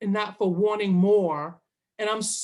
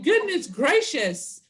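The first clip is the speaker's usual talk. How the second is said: laughing exclamation; 5 semitones higher, slower than usual. Retold or imitated. Retold exasperation, laughing.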